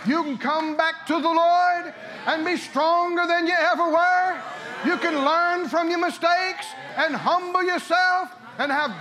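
loud, high, climbing sermon; fired-up preacher shouting hallelujah; preaching at full force. Acted. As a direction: preach it out to the rafters.

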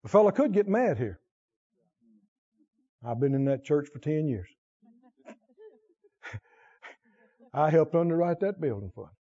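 usual speaking voice

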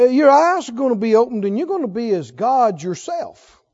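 ordinary delivery

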